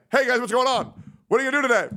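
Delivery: high, bright sing-song hello; mimicked cheery greeting. Streamer mimicking a roommate's daily greeting, high and perky.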